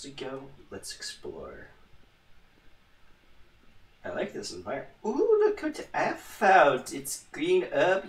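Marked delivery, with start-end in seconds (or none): 5.0-6.9 put-on German accent. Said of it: "went, like, German for that".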